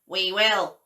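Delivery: loud honk of a goose; honking geese. A narrator's reading. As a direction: answer like a goose. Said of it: "honked the geese".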